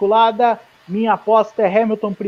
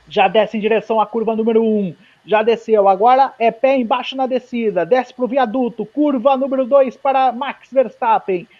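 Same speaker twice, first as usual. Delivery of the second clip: live play-by-play of a qualifying lap; motorsport commentator. Real, not acted. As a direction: call the lap as it happens.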